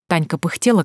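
normal talking voice

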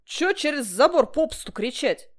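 loud friendly scolding; calling over. A narrator's reading. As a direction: call him over the fence.

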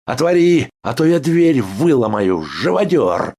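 high, loud insult; patient screams insults at the guard; furious shout. A narrator's reading. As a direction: yell it through the door. Banging on the door.

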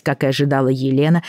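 ordinary delivery

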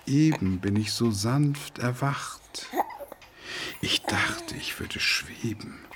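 hushed, slow, breathy reverie; soft whisper. Acted. Man quoting verse at his window, hushed whisper. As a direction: whisper it like waking from a dream.

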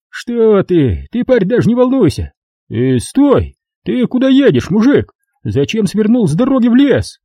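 high, smug official voice; pompous bureaucrat talking down; notary's voice. A narrator's reading. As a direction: play the fat notary, condescending and self-important.

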